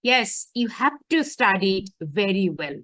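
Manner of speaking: "have to study" pressed with slow, deliberate stress; stressed words. Shown as a demonstration. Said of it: "আমি কিন্তু এখানে জোর দিছি". ("have to study" জোর দিয়ে, ধীরে বলা)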